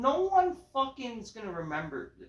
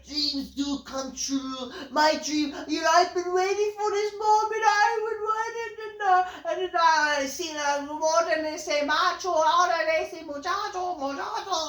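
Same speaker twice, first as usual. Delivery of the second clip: mock Spanish accent; 10 semitones higher, 5 dB louder than usual. Reviewer ridicules the Spanish-speaking promo, high, loud Mexican accent. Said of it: "he's speaking in fucking Spanish".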